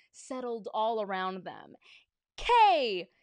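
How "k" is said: loud, high cheerleading chant; high-pitched pep-rally yell; cheerleader shout. A narrator's reading. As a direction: belt it out to rally the crowd. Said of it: "shouted the cheerleaders".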